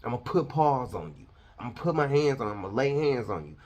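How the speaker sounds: loud, brash threat voice; mocking street talk. Preacher mocking how pastors talk tough. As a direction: sneer it out like a tough guy. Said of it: "You even still talk like them".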